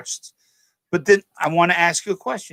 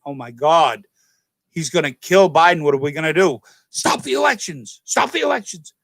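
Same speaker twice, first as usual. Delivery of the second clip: mock panic. Democratic governors freaking out on election night, mock panic. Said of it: "were freaking out, going".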